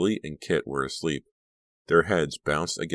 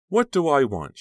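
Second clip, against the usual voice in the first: smiling; 11 semitones higher, 7 dB louder than usual. A narrator's reading. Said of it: "she smiled".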